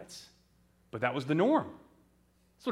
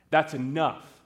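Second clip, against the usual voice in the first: raised, firmer parental command; stern cut-off; 3 dB louder than usual. Acted. Parents cut off their son's preaching, angrily firm. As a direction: repeat it with more force, shutting him up.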